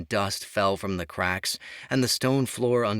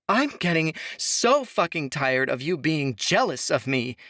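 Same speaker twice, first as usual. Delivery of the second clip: higher and louder, furious outburst; screaming; 8 semitones higher, 4 dB louder than usual. A narrator's reading. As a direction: scream it at her in fury. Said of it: "Sophia screamed".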